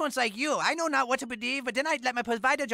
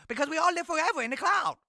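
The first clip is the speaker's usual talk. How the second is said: preaching shout; 4 semitones higher than usual. Acted. Jehovah's Witness preaching at the door.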